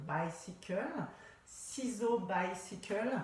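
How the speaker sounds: slow, playful English accent on "bicycle". Shown as a demonstration. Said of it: "avec mon super accent anglais". (accent anglais appuyé)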